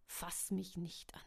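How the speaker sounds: a lightly gasped warning; panting. Acted. Tucker wehrt Claudias Hand ab, keuchend. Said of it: "keuchte er".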